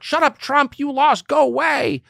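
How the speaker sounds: high, mocking voice of the critics. Host mocking critics who tell Trump to go away, high sneer. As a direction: sneer it high like everyone dismissing him. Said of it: "Everyone else is like".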